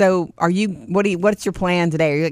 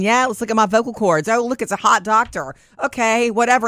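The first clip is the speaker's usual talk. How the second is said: carefree; 5 semitones higher than usual. Retold or imitated. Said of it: "bebopping in there going".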